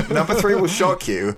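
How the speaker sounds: giggling repeat of the headline; laughing echo. Retold or imitated. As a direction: laugh through the clickbait line. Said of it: "What, the Shocker".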